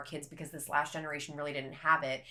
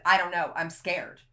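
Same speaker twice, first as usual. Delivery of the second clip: retold fear; 6 dB louder than usual. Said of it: "that's all I could make out".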